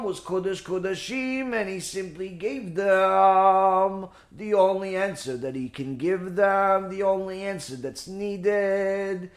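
ordinary talk, nothing marked

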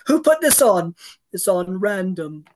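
high, loud protest then slow shrug; mock defensive. Roommate caught playing a sad song, mock defensive. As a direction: blurt it, then dismiss slowly. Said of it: "he's like".

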